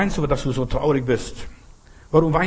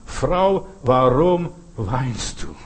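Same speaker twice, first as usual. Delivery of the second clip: Jesus addressing Mary; much slower than usual. Acted. Jesus standing before weeping Mary Magdalena, slow tender-hearted question. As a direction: stretch the question out slowly.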